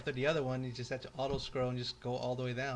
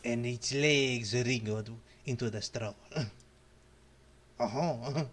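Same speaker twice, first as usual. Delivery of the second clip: ominous narration; slower than usual. Acted. Ominous comic narration, slow.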